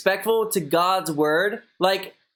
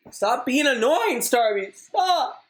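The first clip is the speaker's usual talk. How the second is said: higher-pitched telling-off, rising on the last stop; exasperated scolding; 5 semitones higher, slower than usual. Real, not acted. Telling Starby to quit bothering the stream, exasperated. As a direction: scold a pest who keeps interrupting.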